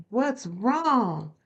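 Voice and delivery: mildly imitating a worried mother; worried mom. Retelling her mom's call, a mild worried-mother imitation. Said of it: "she was like".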